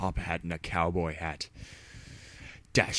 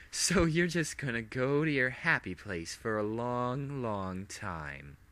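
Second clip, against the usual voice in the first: high, gloating, menacing villain; lightly voiced mad princess; 3 semitones higher than usual. Villain to captive hero, gloating threat. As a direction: threaten with sweet cruelty.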